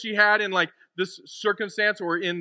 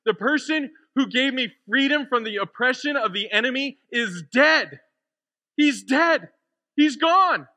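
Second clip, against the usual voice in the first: distraught Mary; 3 semitones higher, 4 dB louder than usual. Acted. Mary explaining why she is crying, distraught and building. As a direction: voice climbing into anguished disbelief.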